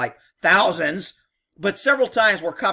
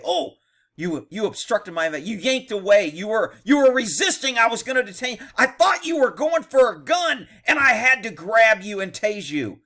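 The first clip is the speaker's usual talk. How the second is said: mock cop excuse; 4 semitones higher, 3 dB louder than usual. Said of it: "This is what this cop is doing".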